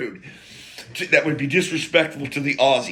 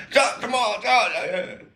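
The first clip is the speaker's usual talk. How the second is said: mock Aussie coaxing; 8 semitones higher, much slower than usual. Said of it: "And he's trying".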